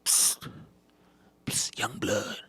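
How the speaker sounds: hushed, secretive psst; furtive stage whisper. Acted. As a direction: whisper it to catch the newcomer's attention. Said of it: "I just hear a little whisper".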